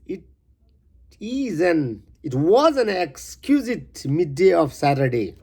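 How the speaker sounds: measured, earnest poem reading. Acted. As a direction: read the stanza like a recital. Reads first stanza of poem.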